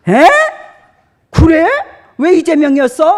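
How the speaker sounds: loud, high shocked question; startled pastor asking why; surprised. Retold or imitated. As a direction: react with disbelief. Pastor surprised in retold chat.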